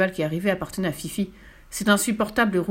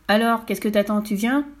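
mildly raised, impatient call; impatient shout; 2 semitones higher, 3 dB louder than usual. Acted. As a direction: call her over with some impatience. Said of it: "il cria à Fifi". (appel impatient, modérément fort)

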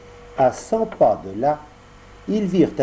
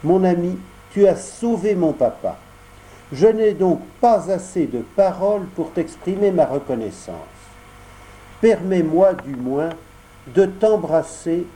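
Pinocchio speaking with gentle emotion, a little higher; thanking the tuna, voice full of feeling; moved voice; 5 semitones higher than usual. Acted. Pinocchio thanks the tuna, voice touched and grateful. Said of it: "lui dit d'une voix émue".

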